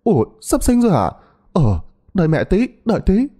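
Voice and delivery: put-on high, startled old woman's cry; mother-in-law startled by news of the birth; surprised exclamation. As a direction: jump at the news. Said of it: "Bà Tân kêu lên".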